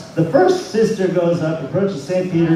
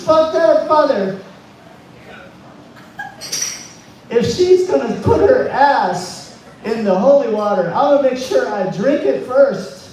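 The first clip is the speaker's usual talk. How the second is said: higher-pitched nun in a rough attempt at Irish; awful Irish accent; 5 semitones higher than usual. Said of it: "my Irish accent is awful".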